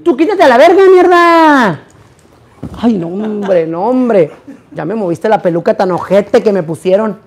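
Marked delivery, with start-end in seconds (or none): 0.0-1.8 loud, high order to get out; angry yell. Real, not acted. Yelling at a helper to get away from her, angry. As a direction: snap at him to move.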